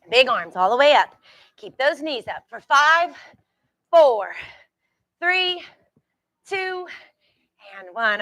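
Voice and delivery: loud punchy countdown, pitch jumping; barking gym coach. Real, not acted. Coach counting down reps loudly.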